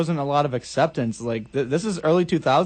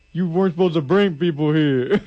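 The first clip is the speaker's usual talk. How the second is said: laughing mock scold. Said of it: "he's like".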